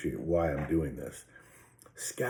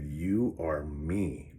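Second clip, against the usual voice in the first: slow, gentle realization; much slower than usual. Retold or imitated. Smiling realization.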